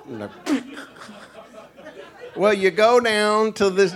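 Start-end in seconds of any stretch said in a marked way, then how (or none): 2.4-3.9 high-pitched country direction-giver; local giving directions. Acted. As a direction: pitch it up like a helpful hillbilly. Acted local giving Tracy directions.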